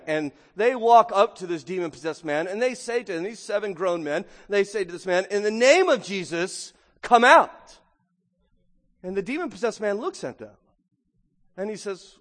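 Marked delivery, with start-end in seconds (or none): 5.3-7.8 a louder, higher call of come out; mock exorcism command. Seven brothers ordering the demon out, loud and higher. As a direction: shout the command like a would-be exorcist.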